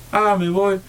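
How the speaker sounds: imitating friends suddenly cheering; excited friends.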